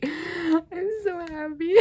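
very high, slow, teary and squeaky; happy tears. Real, not acted. Fan repeats it over the photo card, teary joy. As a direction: let the joy crack your voice.

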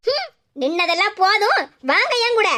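a stern mother catching the two of them out; scolding mother. Acted. Mother orders them to come.

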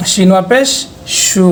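SU said full and thick on "সু"; thick, heavy sound. Shown as a demonstration. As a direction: make the "সু" heavy and rounded. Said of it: "এটা মোটা হবে".

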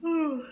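loud drawn-out yawn sound; imitated yawn. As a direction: let out an exaggerated yawn. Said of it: "you go up to them and you go".

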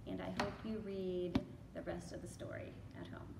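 soft whispered goodbye wish. Real, not acted. Librarian whispering farewell to young listeners.

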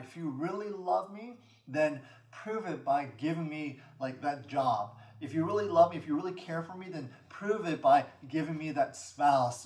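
acted-out insistent plea to God; emphatic mock prayer, bargaining; demanding. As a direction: press each demand, piling them up. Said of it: "or really rather demands to the Lord".

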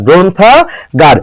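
গ্রন্থাগার slowly split, "gron-tha... gar"; pronunciation demo. Shown as a demonstration. Teacher correcting students, গ্রন্থাগার slowly syllable by syllable. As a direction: draw out গ্রন্থাগার in pieces with a closed "o". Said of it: "এটা হবে কি?".

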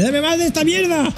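high squeaky crazed demand; voicing the greedy dog. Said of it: "se gira en plan de".

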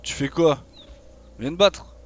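provocation plus forte et plus haute; appelle-le au combat; défi crié. Real, not acted. Défie à nouveau l'adversaire. (défi crié)

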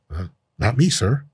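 small, hesitant reply; timid camera guy. Acted. Camera guy backing down from the fighter, meek voice. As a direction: answer meekly, a little under your breath. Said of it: "The camera guy's like".

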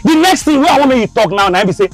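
steady threat building to shouting; calm turning angry. Acted. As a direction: start calm, then lose temper. Creditor demanding his money.

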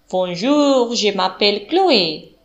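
put-on Andalusian accent. A narrator's reading. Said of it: "con un acento andaluz marcado y algo nerviosa".

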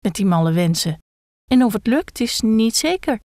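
calm the head down while doubting yourself; a nervous gekko urging patience; fussy gekko. Acted. Gekko calms and hesitates.

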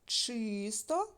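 чисто drawn out slowly on ЧИ; slow ЧИсто, first vowel stretched; stress on first syllable. Shown as a demonstration. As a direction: lean long on the и in чисто. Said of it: "ненаголошений і наголошений звук".

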